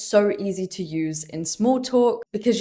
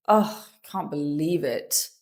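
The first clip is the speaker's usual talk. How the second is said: sigh, then low groaning disbelief; frustrated groan; 4 semitones lower, 3 dB quieter than usual. Shown as a demonstration. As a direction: groan it out in frustration, pitch dropped. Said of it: "Say it with a groan".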